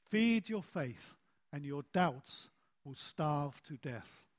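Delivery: slow, deliberate group recitation; measured slogan, settling low at the end; recited saying. Shown as a demonstration. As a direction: repeat it slowly for all to join in. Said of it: "Let's say this together".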